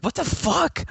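high, loud incredulous outburst; shocked disbelief. Retold or imitated. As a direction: blurt it out appalled, pitch jumping up. Retelling shock at the player's slur.

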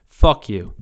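deadpan loud dismissal; blunt curse. Real, not acted. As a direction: spit out the punchline. Punchline curse at critics.

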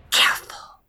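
whispered hissing snake. Acted. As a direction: hiss it like a serpent. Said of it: "hissed Elfie at Tinoa".

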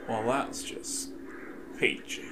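sarcastic. Real, not acted. Sarcastic remark.

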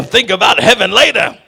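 lightly acted punchy film line; Color Purple impression. Preacher quotes Color Purple advice on heaven, lightly acted character voice. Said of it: "that's an inference to Color Purple".

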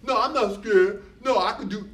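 a small voice insisting it isn't scared; little inner voice. Pretend. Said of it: "a little voice says".

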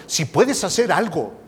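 hesitant. Retold or imitated.

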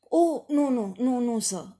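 starts high and loud, then settles; flustered denial. A narrator's reading. Widow backtracking to the guest, flustered denial. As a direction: hurriedly take it back. Widow hastily takes back her remark.

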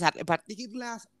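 choking on a drink mid-word; words caught by a choke. Real, not acted. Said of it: "me ahogué".

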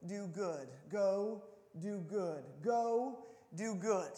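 soft, slow, hushed voice of God; lightly voiced God, gently insisting; a hint of a calm divine voice calling; God's quiet call. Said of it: "all the while God is saying".

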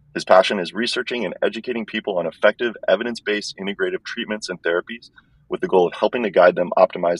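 thin, tinny earbud-mic sound; like talking in a tin can. Real, not acted. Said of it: "It sounds like I'm talking in a tin can".

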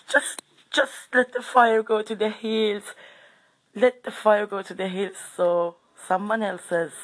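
high-pitched, pleading to herself; retold panicked plea. Storyteller reliving the fire heading for the wheat, panicked plea.

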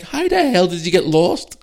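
high, loud, drawn-out disbelief; incredulous. Retold or imitated. Son to parents who got lost, incredulous.

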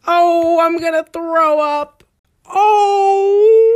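high, loud cringing laugh; squealing laugh of embarrassment; pained laugh. Real, not acted. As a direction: laugh it out in mortified disbelief. Cringing at old posts.

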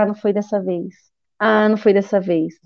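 low, subdued letdown; quietly re-enacted disappointment, pitch dropped; frustração. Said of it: "era aquela frustração". (desânimo contido, voz baixa)

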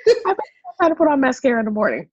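reading the comment through laughter, rising high; mock-incredulous, half laughing; laughing retell. Cohost retelling a silly comment, laughing.

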